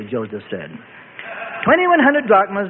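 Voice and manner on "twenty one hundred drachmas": shooting back. A narrator's reading. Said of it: "the rabbi shot back".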